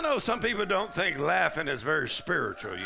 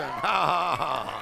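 forced "ha, ha, ha" falling away; spaced-out defiant ha-ha; deliberate laugh; much slower than usual. Shown as a demonstration. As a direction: laugh on purpose at the devil. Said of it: "That's why I'm laughing".

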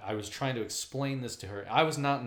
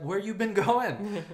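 high, slow, drawn-out nosy question; prying hairdresser; 10 semitones higher, 4 dB louder, much slower than usual. Retold or imitated. Hairdresser quizzing customer, high and slow. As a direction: stretch it out, nosy and suspicious. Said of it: "she's like".

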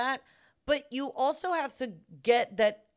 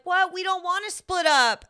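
higher, louder mimicked whine of complaint; protesting kids; 7 semitones higher, 5 dB louder than usual. Daughters balking at being split up on the plane, mimicked protest. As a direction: imitate kids objecting loudly.

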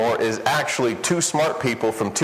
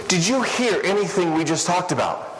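exasperated friend; 5 semitones higher than usual. Retold or imitated. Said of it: "He goes".

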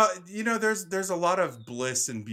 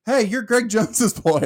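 put-on excited older man; 11 semitones higher, 9 dB louder than usual. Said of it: "And he's like".

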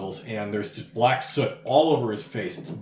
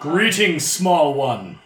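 booming ancient voice; 3 semitones higher, 5 dB louder, much slower than usual. Acted. Oldrak booming voice.

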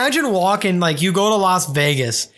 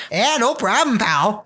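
badly faked Australian accent, raised then dropping; terrible Aussie accent; 4 semitones higher than usual. Kangaroo work pal answering its owner, bad Aussie accent. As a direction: have a half-hearted go at an Aussie accent. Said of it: "That was a terrible Aussie accent".

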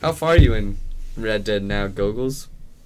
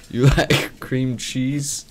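slow flirty question; 4 semitones higher, 4 dB louder, much slower than usual. Pretend. Mock flirty sex line question.

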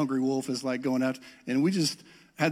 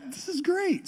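mock enthusiasm. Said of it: "I was like".

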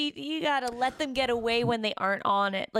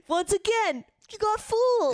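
teasing laugh; 12 semitones higher, 5 dB louder than usual. Real, not acted. Listener teasing friend.

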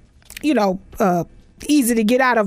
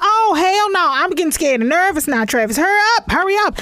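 mock scared urging; 6 semitones higher than usual. Comedian retelling how she begged her friend to hurry. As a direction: hurry him along in a comic panic. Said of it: "I said".

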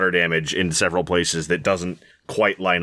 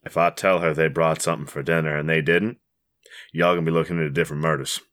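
husband's warning; 5 semitones lower, faster than usual. Acted. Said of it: "he says".

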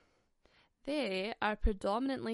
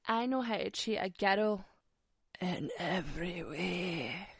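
mocking Tinder guy; 2 semitones lower than usual. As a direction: parody his cheesy promise, lightly voiced. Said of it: "I'm sick of the whole".

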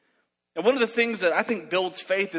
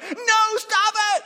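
high, loud, hammed-up scream; panicked mock yell; 5 dB louder, much slower than usual. Boy as cousin raises his gun, high panicked mock scream. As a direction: shriek to stop him in time. Stops cousin shooting the bird.

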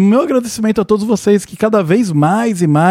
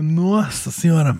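slow, strained after choking; catching breath after choking; swallowed wrong way; 4 dB quieter, slower than usual. Real, not acted. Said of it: "Esperar minha voz voltar".

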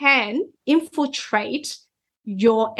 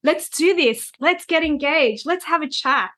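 mock-enthused invitation; 5 semitones higher than usual. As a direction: play the eager energized self. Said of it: "And I'm like".

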